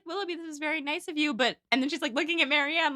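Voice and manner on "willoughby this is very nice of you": quick, higher, politely restrained; acted polite thanks through a poker face. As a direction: keep up a pleasant front. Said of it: "she does have a good poker face".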